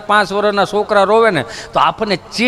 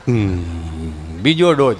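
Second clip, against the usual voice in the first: much lower, dopey grunt; low dim-witted drone; dull villager; much slower than usual. Retold or imitated. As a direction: answer like a slow simple villager. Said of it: "ગભો answering nurse".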